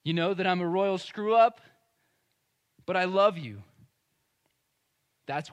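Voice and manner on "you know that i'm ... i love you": mildly raised, earnest confession; Peter. Acted. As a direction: admit the failure, then insist on the love. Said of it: "we can translate this into Peter confessing".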